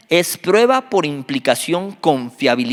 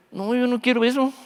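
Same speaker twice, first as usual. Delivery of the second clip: recoiling refusal; 9 semitones higher than usual. Acted. Listener recoiling from Job's suffering.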